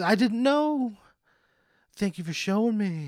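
high squeaky doctor; doctor's voice. Acted. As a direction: chirp it out as the clueless doctor. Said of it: "He goes".

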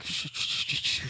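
hushed shushing whisper. Pretend. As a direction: shush like a voice hushing you. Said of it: "my love is like".

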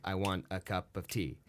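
quiet English accent in iambic beat; English lilt. Shown as a demonstration. Actor showing English rhythm, soft and metered. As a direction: tap it out da-da-da like English verse. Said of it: "the English speak on".

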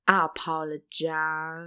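lazy cowboy line delivery; cowboy drawl. Retold or imitated. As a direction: say it like a movie cowboy. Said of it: "Is that a Matthew McConaughey line?".

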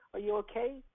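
put-on stranger gently checking on a lost boy. Repeated question to crying boy.

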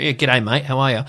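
lightly hammed-up broad Aussie; played-up Australian accent. Actors instinctively playing it up, mock broad Australian accent. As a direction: imitate a broad Australian greeting. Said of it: "actors will often instinctively do that".

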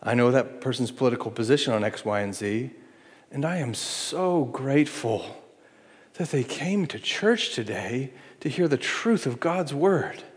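soft, sincere and glad; quiet heartfelt gratitude; grateful. Retold or imitated. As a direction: welcome them despite politics.

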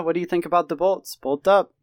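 fast, mock English accent; terrible English accent. Host cheering on the Chargers in a bad English accent. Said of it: "All right, that was terrible".

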